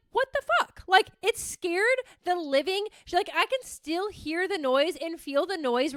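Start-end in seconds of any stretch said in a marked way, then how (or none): 0.1-0.8 high, loud startled swear; retold shocked yell; shocked outburst. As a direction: react to a sudden bang. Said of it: "I'm just like".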